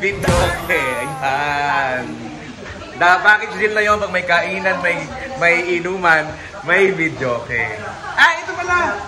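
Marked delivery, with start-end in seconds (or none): 0.0-0.8 loud, excited party announcement; loud announcing. Real, not acted. 8.2-9.0 high, sudden surprise; surprised. Real, not acted. Suddenly spots a guest.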